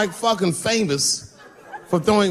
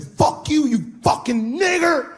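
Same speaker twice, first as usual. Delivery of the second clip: mock racist yell; hateful yell; 10 semitones higher, slower than usual. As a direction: spit it out, hammed-up. The guy yelling the slur.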